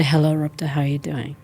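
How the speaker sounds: soft unvoiced hello to herself; whispered greeting. Shown as a demonstration. Greeting her own body first thing in the morning, whispered. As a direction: whisper it gently inward.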